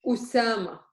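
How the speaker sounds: Usama opened with a glottal stop. Shown as a demonstration. Teacher giving students an example of word-initial hamza, glottal stop. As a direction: start Usama on a clean catch in the throat. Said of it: "It sounds like a glottal stop".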